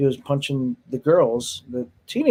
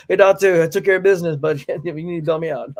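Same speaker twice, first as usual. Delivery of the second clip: mock jailhouse call; 4 semitones higher, 4 dB louder than usual. Imitating jail call to friend.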